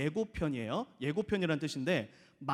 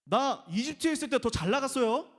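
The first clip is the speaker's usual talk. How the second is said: higher, pleading and grumbling at God; mock complaint to God, pitched up; whiny complaining prayer; 6 semitones higher than usual. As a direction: whine like ungrateful Israelites. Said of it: "구약 시대 이스라엘 사람들이 만나를 받으면서".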